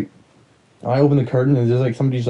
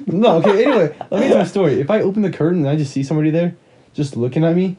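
excited storytelling; 5 semitones higher than usual. Real, not acted.

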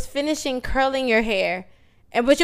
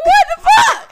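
high, loud shriek through laughter; freaking out shout; 7 dB louder than usual. Retold or imitated. Friend learns her water broke, shrieking in laughing disbelief. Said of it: "I'm freaking the fuck out".

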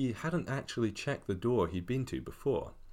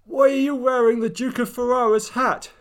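high, loud tearful cry; loud high-pitched distraught question; holding back tears; 13 dB louder than usual. Acted. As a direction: near tears, demanding an answer. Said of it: "She could barely restrain her tears".

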